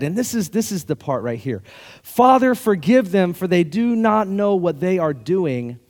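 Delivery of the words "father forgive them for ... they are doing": voicing Jesus. Pastor voicing Jesus on the cross, a pleading cry. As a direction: cry it out, then ease into a slow plea.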